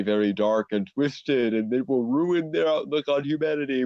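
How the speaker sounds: lightly voiced scheming villain; half-hearted mustache-twirling villain. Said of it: "mustache twirling villain going".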